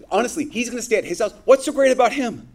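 preacher playing the crowd resenting Zacchaeus; indignant crowd grumble. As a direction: spit it out like a jealous follower passed over.

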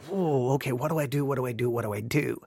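quiet, low, hurried panic muttered to self; flustered panic. Retold or imitated. To himself as noon nears, quiet flustered panic. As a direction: fret softly over what to do.

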